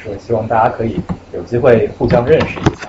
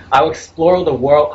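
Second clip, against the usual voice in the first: with gusto; 5 semitones higher, 3 dB louder, slower than usual. Shown as a demonstration. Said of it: "gusto and enthusiasm".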